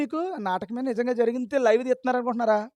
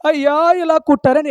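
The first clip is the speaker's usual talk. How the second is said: loud, high mock lament; mock crying; 3 semitones higher, 5 dB louder than usual. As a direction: mimic a believer wailing for Jesus. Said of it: "ఏడుస్తున్నావు నువ్వు". (ఏడుపును వెక్కిరిస్తూ గట్టిగా అనుకరణ)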